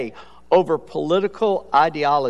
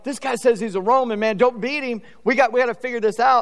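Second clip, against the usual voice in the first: panicky soldier; 6 semitones higher than usual. Retold or imitated. Soldier runs to boss panicking.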